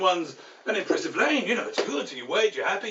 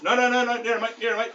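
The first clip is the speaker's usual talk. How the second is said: raised, rapid-fire correction; insistent directing; 4 semitones higher, 3 dB louder than usual. Acted. Ferry marshal urging a driver nearer, insistent. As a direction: coax the car closer, insistently.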